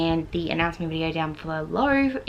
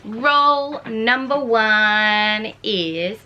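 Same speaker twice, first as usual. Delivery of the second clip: slow, louder drawn-out build-up; suspenseful; 2 semitones higher, 5 dB louder, much slower than usual. Real, not acted. Booktuber teasing the dice result slowly. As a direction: hold each word for suspense.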